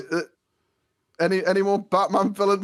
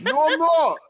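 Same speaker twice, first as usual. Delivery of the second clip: higher, strained tearful protest; tearful Harry; 8 semitones higher, 4 dB louder than usual. Retold or imitated. Friends retelling a viral video, Harry nearly crying. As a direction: deny it, close to tears. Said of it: "That video is, oh, it's so good".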